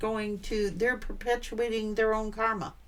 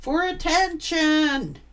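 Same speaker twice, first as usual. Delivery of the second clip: exasperated exclamation; 5 semitones higher, 6 dB louder, slower than usual. Real, not acted. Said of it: "exasperated verdict".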